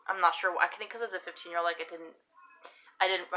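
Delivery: ordinary delivery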